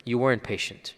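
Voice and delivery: soft, gentle correction; gentle rebuke. Retold or imitated. Prophet gently telling the grieving lady, soft and kind. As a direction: say it quietly and kindly. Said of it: "he's saying in a very gentle manner".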